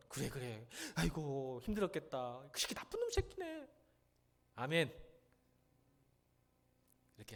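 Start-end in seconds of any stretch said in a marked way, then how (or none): 0.1-3.7 consoling mother. Acted. Mother comforts her hard-pressed child, consoling then indignant on their behalf. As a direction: take the child's side like a doting mother. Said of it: "엄마는".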